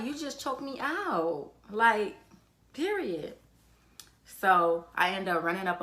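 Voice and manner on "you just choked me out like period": mock angry. Angry retort to the girl.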